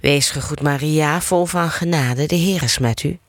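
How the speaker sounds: measured, rhythmic prayer recitation; rosary prayer. Acted. Leader reciting the rosary with listeners, steady prayer cadence. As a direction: recite the Hail Mary as a familiar chant. Leads the Hail Mary.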